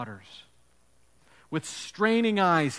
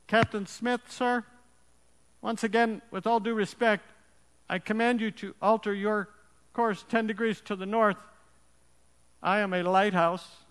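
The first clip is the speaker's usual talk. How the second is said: calm private; 5 semitones higher than usual. Acted. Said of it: "Private's final transmission was chilling".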